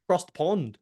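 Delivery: light mock British accent; put-on British accent. Host echoing his co-host, light mock British accent. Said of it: "great accent".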